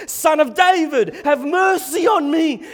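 high, full-voiced desperate shout. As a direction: cry out even harder over the objections. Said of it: "he raises his voice anymore".

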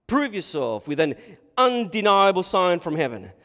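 loud challenge, rising on "undeniable"; demanding Pharisee. Acted. Pharisee ordering Jesus to prove himself, loud demand. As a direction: demand proof with force.

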